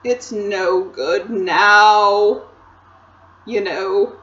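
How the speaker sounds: slow, lightly voiced despairing faun; mournful faun.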